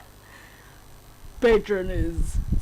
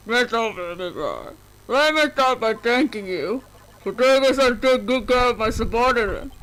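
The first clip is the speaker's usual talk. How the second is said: Bane voice. Acted. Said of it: "it's straight up Bane".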